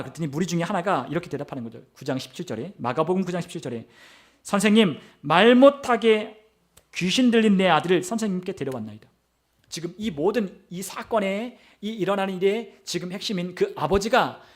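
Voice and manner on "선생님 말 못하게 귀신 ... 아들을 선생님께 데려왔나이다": preacher acting a desperate father's petition; pleading father. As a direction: draw out the plea, emphatic. Acts father appealing to Jesus.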